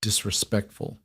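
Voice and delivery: slowly savoring the word; unhurried, weighing each syllable; slow, tasting the word. A narrator's reading. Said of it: "repeated the word slowly, tasting it".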